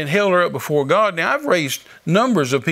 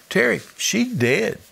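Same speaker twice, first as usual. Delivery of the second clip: blunt insistence; 7 semitones higher, slower than usual. Retold or imitated. Doctor insisting to stubborn friend.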